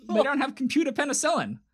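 high-pitched virus character; a pretend computer virus griping. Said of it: "It's like".

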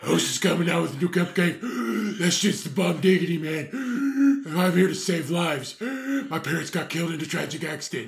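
lightly voiced gluttonous superhero; fat Batman. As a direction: gasp between lines as a fat hero. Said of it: "It's like, it's like Batman".

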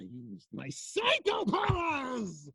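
villain shout. Acted. Villain shouts his power.

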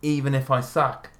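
committed, put-on Aussie accent; Australian accent. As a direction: keep up the mock Australian accent. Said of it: "I'll stick to my Australian accent".

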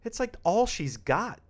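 mock incredulous questioning, slow and drawn out. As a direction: stretch it out in exaggerated disbelief. Mock incredulous reply to stranger.

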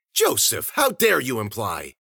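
loud reproach, starting high; theatrical, offended outburst; indignant scolding. Acted. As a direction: scold a companion with mock outrage. The speaker repeats her scolding of Joseph.

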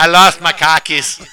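put-on laughing try at a Boston accent; bad Boston accent. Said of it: "I can't do a Boston accent".

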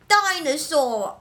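put-on slow, drawn-out toddler answer; little kid voice. Imitating Henry answering what it becomes, toddler voice.

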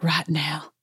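composed retelling, at an even pitch; calm. Retold or imitated. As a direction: state it calmly, as someone unbothered. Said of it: "Sutton says calmly, per usual".

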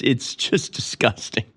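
hushed, slow, breathy disgust; disgusted whisper. Real, not acted. Host recoiling from the Super Bowl, whispered disgust. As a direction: drop to a whisper of revulsion.

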